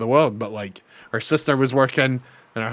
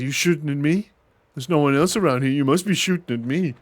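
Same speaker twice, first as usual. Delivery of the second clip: mock gangster quote; 2 semitones higher than usual. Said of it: "He quoted Godfather or Goodfellas".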